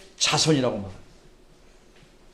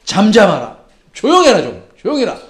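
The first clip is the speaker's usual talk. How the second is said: raised, rebuking hush; scolding; 5 dB louder than usual. Acted. Crowd rebuking the shouting beggar, scolding. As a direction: tell someone off to shut up. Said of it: "많은 사람들이 꾸짖어".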